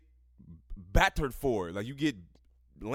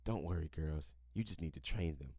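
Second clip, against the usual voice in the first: hushed, much lower and softer read of the quote; quoting the friend's hushed tip, softly; read as a whisper; 9 semitones lower, 10 dB quieter than usual. A narrator's reading. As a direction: drop the voice low for the secret advice. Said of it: "leans forward and whispers".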